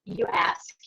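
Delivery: breathy whisper; whispered repeat. Real, not acted. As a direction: drop to a whisper to drive it home. Repeating advice, dropping to a whisper.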